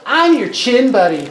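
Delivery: tiny high whiny pixie; squeaky little sprite complaining. Acted. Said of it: "a little voice from in your shirt".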